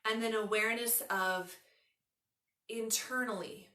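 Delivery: unhurried yoga nidra guiding voice, long pauses; measured relaxation instructions with room to breathe; guided meditation. Acted.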